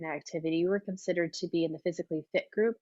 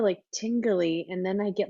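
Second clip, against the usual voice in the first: ordinary talk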